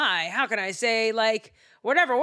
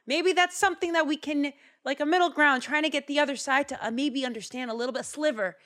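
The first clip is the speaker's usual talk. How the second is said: hopeful musing; 5 semitones higher than usual. Retold or imitated. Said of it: "I was like".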